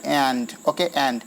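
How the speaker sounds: "एंड" a little stretched; drawn-out word. Shown as a demonstration. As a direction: linger slightly on the vowel of "एंड". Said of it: "एंड थोड़ा खिंचाता है". ("एंड" को थोड़ा खींचकर)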